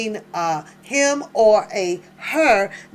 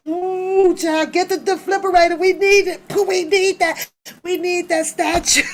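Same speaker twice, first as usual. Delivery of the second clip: frantic, higher, fast call for the defibrillator; mock emergency; 7 semitones higher than usual. Mocking prosecutors reviving a dead statute, hammed-up frantic call. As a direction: ham up a panicked rescue.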